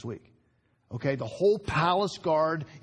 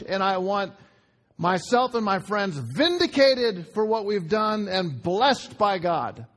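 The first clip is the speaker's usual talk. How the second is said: impassioned demand for justice, pitch raised; acted outburst; 3 semitones higher, 3 dB louder than usual. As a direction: plead your case to the whole world. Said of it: "standing up on a chair and screaming".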